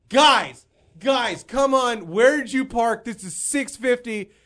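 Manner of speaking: loud, high comic outrage; acted indignant protest. To people leaving the meeting about pricey parking, acted indignant protest. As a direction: call out to them, mock-exasperated.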